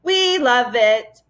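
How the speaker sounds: slow, drawn-out roar of the crowd; roaring mob. Acted. Furry mob roaring at the travellers, slow and drawn out. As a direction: stretch each word like a chanting mob. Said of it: "roared a furry mob".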